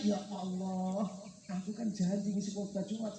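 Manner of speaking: slow, drawn-out "Ya Allah"; retold dismayed realisation. Ustadz in town remembers his Friday sermon, retold dismay. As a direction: stretch it out as a forgotten promise dawns.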